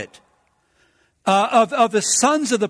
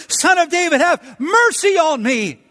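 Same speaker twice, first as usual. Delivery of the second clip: crying out for mercy; 8 semitones higher than usual. Acted. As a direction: call out to Jesus from the roadside. Blind Bartimaeus crying to Jesus.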